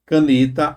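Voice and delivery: caneta with NE strong and lengthened; stress on middle NE. Shown as a demonstration. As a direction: lean on "ne" in caneta. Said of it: "a mais forte, tá na penúltima".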